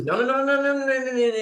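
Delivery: high, rapid string of panicky no's; uncomfortable protest. Retold or imitated. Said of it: "she's getting real uncomfortable".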